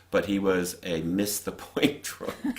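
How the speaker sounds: slow, amused delivery breaking into a laugh; laughing while talking. Real, not acted. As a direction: let a laugh slip into the line. Laughing while describing drunk father.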